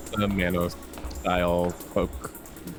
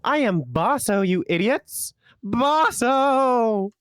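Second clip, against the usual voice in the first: indignant shout; 9 semitones higher, slower than usual. Acted. Character shouting name.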